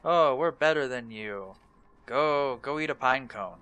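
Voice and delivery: lightly mocking snooty elf; a touch of haughty disdain; snooty, stuck-up. Stuck-up elves looking down on others, mildly mocked snootiness. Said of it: "they were always so snooty and stuck up".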